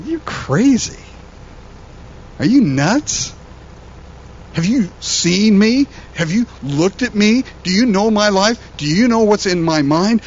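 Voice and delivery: high, disbelieving rush of questions; incredulous disbelief. Retold or imitated. His younger self scoffing at a pastor's future, incredulous. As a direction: scoff at the idea you could ever change. Imagined reply to prophecy.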